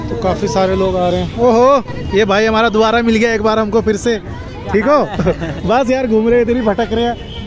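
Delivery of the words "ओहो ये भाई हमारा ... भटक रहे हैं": cheerfully surprised to bump into him; happy surprise. Real, not acted. Vlogger meeting the driver friend a third time, happily surprised.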